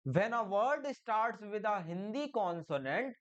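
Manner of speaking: very slow, word by word; dictating pace; slow dictation. Shown as a demonstration. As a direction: read the rule out slowly for the class. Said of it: "मतलब हिंदी के व्यंजन से".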